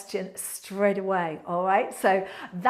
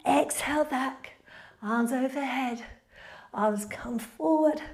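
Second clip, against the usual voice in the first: yoga instructor cueing. Acted. Leads a yoga flow.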